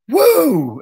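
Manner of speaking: high excited whoop; mimicking the player's whoop mid-pass; imitated woo. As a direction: let out a gleeful yell of "Woo!". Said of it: "you could hear him go".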